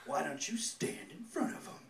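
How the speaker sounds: mock the bumper sticker in a Southern accent. Comic reading a bumper sticker aloud, mock Southern accent. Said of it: "in a thick Southern accent".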